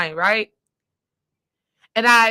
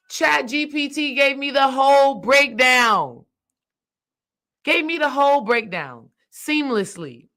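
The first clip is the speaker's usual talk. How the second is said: triumphant; 4 semitones higher than usual. Real, not acted. Triumphant payoff of the story.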